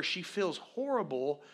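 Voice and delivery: normal talking voice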